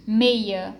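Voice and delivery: "Meia" with the final A sounded as its own syllable; A independente. Shown as a demonstration. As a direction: pronounce "Meia" carefully, separate A. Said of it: "Esse A, ele tem um som independente". ("Meia" com o A final bem destacado)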